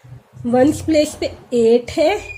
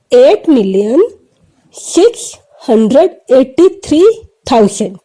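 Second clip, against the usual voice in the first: clear number read-out; 4 dB louder than usual. Shown as a demonstration. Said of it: "अब इसको pronounce कैसे करेंगे".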